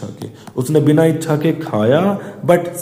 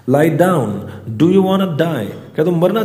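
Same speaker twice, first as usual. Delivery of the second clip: mock shout; 4 semitones higher than usual. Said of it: "ऐसे चिल्लाए".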